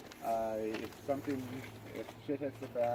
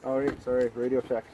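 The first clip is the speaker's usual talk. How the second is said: inside a helmet; 3 semitones higher, 9 dB louder than usual. Real, not acted. Radio check through a mask.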